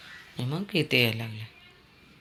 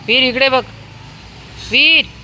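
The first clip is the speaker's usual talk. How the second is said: much higher, louder call; 11 semitones higher, 6 dB louder than usual. Real, not acted. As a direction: shout for the dog to look. Calling dog loudly.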